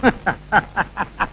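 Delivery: low, soft chuckle in separate beats; staccato laugh. Acted. Doctor laughing after the police praise, staccato chuckle. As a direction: laugh in a long string of short, low pulses.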